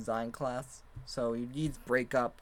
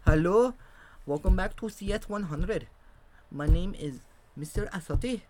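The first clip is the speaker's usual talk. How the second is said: higher, louder Indian-accented teacher imitation; 7 semitones higher, 6 dB louder than usual. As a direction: greet the class in a put-on Indian accent. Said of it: "in a freaking Indian accent".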